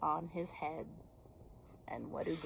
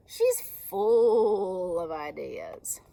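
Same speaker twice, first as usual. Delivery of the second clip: breathy slow secret about Sheep; slow whisper; 8 dB louder, much slower than usual. Acted. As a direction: whisper it, very slowly. Beaver whispers slowly.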